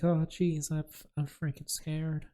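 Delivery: high, stammering mock-scared voice; scared side character. Reminding friends of an actor, high scared-sidekick voice. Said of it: "he talks like this".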